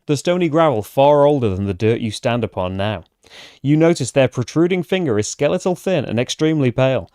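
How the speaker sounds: fantasy adventure narration; story narration. A narrator's reading. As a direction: read it like the opening of a fantasy tale. Reads the game's story text.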